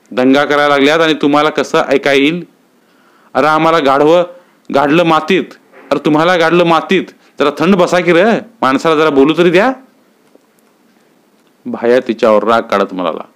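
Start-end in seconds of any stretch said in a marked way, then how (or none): 0.1-9.7 put-on raised, fed-up scolding of children; scolding mother. Mother scolding her three boys playing outside, mildly voiced. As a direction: snap at the noisy kids.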